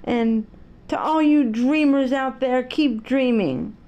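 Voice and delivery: lightly voiced, slow heartfelt sign-off; Billy Crystal's sign-off. Host signing off to all the dreamers, slow and earnest. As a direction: draw out keep dreaming like a host closing the show. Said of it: "Billy Crystal would say".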